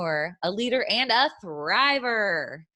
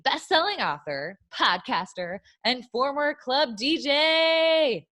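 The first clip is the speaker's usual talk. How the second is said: building hype; 4 semitones higher than usual. Acted. Building up the guest introduction.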